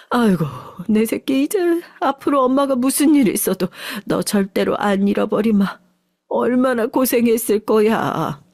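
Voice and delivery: put-on cling to her child in tears; tearful mother. Mother to her son at the reunion, tearful relief. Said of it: "눈물의 재회를".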